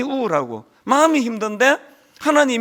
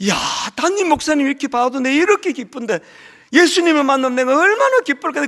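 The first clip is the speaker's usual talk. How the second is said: higher and louder, thrilled exclamation; mock excited shout; 5 semitones higher, 4 dB louder than usual. Church member shouting for joy at seeing the pastor, louder. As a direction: call out like an overjoyed church member. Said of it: "소리 지르면서".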